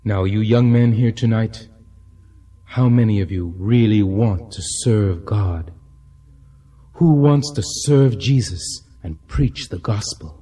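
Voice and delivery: rousing revival sermon; preaching. Acted. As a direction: call the crowd to God. Preacher delivering stirring sermon.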